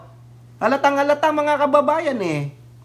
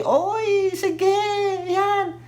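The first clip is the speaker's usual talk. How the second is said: mock excitement; 12 semitones higher, much slower than usual.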